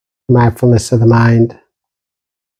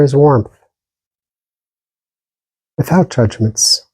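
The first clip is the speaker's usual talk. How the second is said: calm, even meditation guidance with long silences between phrases; unhurried meditation teacher, pausing long after each instruction; guided meditation. Real, not acted. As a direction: gently guide listeners inward, leaving lots of space.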